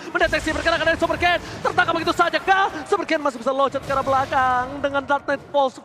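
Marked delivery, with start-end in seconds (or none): 0.1-4.7 fast play-by-play. Real, not acted.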